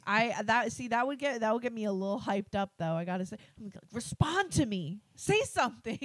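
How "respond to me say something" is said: mock exasperated demand. Acting out being hyped up.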